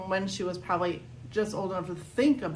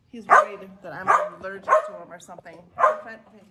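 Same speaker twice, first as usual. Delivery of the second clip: excited; 11 semitones higher, 10 dB louder, faster than usual. Real, not acted. Talks to dog barking.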